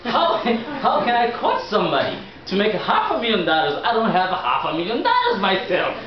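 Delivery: a touch of retold frustration; half-laughing mock outrage; mad. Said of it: "And then I was mad".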